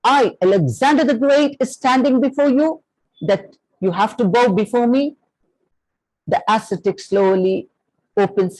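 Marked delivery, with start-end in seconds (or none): 0.0-1.6 higher, raised mock shout; proud royal mock shout; retold shout. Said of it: "he shouts". 1.6-5.2 raised, higher mock shout of a proud king; a hammed-up royal bark, not a full yell; retold shout. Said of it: "he shouts".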